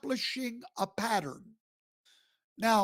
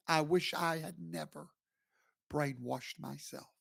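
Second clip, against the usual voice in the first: hushed, lower, not quite a whisper; imitated regretful whisper; 3 semitones lower, 6 dB quieter than usual. Host voicing a generation looking back in regret, hushed. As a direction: softly murmur it as a remembered regret. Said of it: "look back and whisper those same words".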